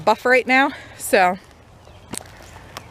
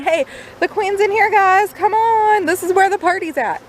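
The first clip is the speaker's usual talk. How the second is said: high, cheery bee voice; excited little bee calling friends; 8 semitones higher than usual. Pretend. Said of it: "the pheromones that are saying".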